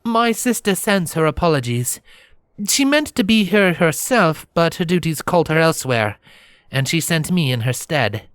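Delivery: a princess formally passing on apologies, pitched high; silvery voice. Acted. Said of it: "the stranger explained with a silvery voice".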